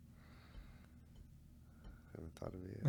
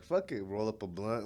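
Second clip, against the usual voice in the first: reckless fuck it; 2 semitones higher, 5 dB louder than usual. Retold or imitated. Friends in line at the border, loud and carefree. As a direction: toss it off with reckless abandon. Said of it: "we were like".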